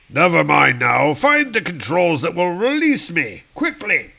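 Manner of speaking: loud, urgent archaic order; urgent Hercules. Acted. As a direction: hurry the robot along.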